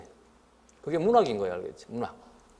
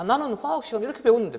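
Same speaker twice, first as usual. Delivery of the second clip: mock student; 5 semitones higher than usual. Teacher mimics student clinging to learning.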